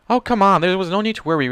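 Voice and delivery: loud, high cocky call. Acted. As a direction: brush off the worry boldly. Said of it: "Rainbow called from the couch".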